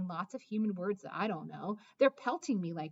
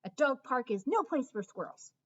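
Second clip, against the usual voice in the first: stern bark; 4 semitones higher, 5 dB louder than usual. Acted. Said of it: "I bark".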